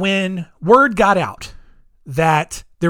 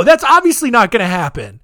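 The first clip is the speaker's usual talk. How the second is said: ordinary talk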